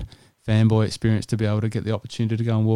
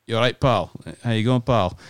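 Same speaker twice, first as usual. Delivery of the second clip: light Scottish greeting; Scottish accent; 2 semitones higher than usual. Retold or imitated. Golf pro greeting a fan, Scottish accent. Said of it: "My best Scottish accent".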